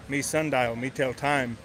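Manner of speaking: a light, lightly voiced Native American accent, halting; mock Native accent. Joke teller lightly does a Native American accent for the punchline. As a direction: keep the Native accent understated, clipped to a few words. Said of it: "I have to do an accent".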